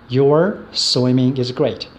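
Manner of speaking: slow, carefully spaced teaching read; slow example read. Shown as a demonstration. Teacher slowly reads example sentence to class, slow and careful. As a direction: lay the example out slowly for students. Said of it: "请各位多看一下".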